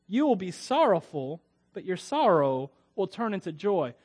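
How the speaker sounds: measured, emphatic proclamation of the verse; solemn reading to a congregation; scripture reading. Acted. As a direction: read it out with stressed key words and pauses. Reads Jesus' reply from scripture.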